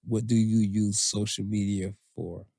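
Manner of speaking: measured, low read of a listener's question. Real, not acted. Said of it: "last one comes from Nat".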